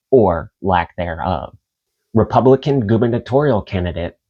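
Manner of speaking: measured news article reading. Acted. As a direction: read it like a news report. Reads news article aloud.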